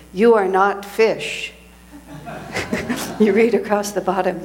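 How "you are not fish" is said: slow, emphatic pronouncement; emphatic declaration. Retold or imitated. Speaker quoting the Swami's slip in Italian, emphatic. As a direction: declare it firmly, drawing out each word. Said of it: "he says emphatically".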